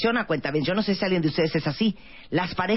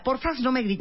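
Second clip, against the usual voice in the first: polite plea; 5 semitones higher than usual. Shown as a demonstration. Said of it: "uno podría decir".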